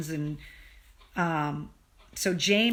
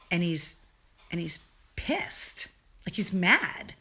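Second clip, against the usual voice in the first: whispered aside; 3 semitones lower, 4 dB quieter than usual. Real, not acted. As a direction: drop to an unvoiced whisper for the aside. Aside about angry friend.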